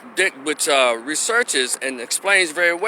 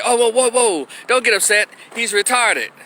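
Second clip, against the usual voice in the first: higher-pitched mock intervention; hurried-in "hold on" tone, imitated; placating bystander; 5 semitones higher than usual. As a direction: step in to calm someone, pitched up. Imitates bystanders calming an upset person.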